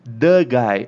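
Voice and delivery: loud, emphatic "thee guy". Shown as a demonstration. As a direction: hit "The" hard, as if he is the one and only. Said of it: "Quando eu tô falando com uma ênfase muito forte".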